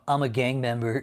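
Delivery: mocking a gang member bragging; hammed-up boast, shouted; mock tough-guy boast. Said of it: "Imagine trying to show off".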